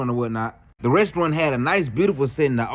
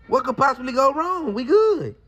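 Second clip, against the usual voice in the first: sarcastic; 6 semitones higher than usual. Retold or imitated. Ironic setup before disaster.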